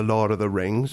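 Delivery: West Country English, like a hobbit; imitated Dorset and Somerset speech; Dorset accent. Shown as a demonstration. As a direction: slip into a rustic Dorset accent. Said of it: "Somerset accents".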